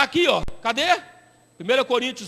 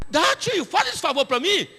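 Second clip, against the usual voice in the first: higher, lightly voiced smooth talker; sweet-talking caller; 6 semitones higher than usual. Caller sweet-talking the pastor for phone credit, higher. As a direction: coax him for phone credit.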